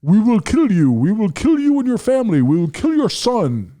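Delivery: loud, high-pitched threat in an imitated Middle Eastern accent. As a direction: mimic a menacing caller with a Middle Eastern accent. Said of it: "an Arabic, you know, Middle Eastern accent".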